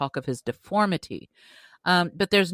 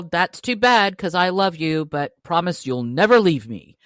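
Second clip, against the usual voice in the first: mock beast; 5 dB louder than usual. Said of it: "He's all".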